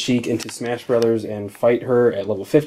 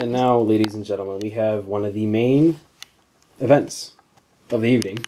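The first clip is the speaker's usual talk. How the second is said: boxing ring announcer. Pretend. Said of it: "I'm talking like I'm a boxing announcer".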